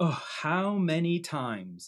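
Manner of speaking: very slow, drawn-out, put-on sarcastic tone. Speaker showing how others impersonate them: mock-sarcastic voice. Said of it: "they kind of just put on a sarcastic voice and they just go".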